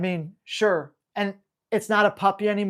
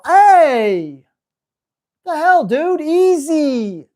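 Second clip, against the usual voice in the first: loud, much higher scold at the dog; loud, higher outraged correction; sharp scolding; 8 semitones higher, 9 dB louder, much slower than usual. Shown as a demonstration. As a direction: tell off a dog that just banged your hand. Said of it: "and I go".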